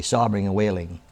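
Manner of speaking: reading aloud with emphatic, fuller voice; inspirational reading. Acted. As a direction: read the excerpt like a heartfelt devotional. Reads book excerpt aloud.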